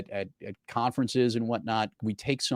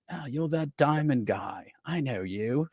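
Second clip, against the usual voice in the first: slow, mock English accent of a singer; imitating a singer's English accent, slowly; British accent impression; 4 semitones higher, slower than usual. Telling a podcast host how a singer greeted him, in slow British accent. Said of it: "in his very nice accent".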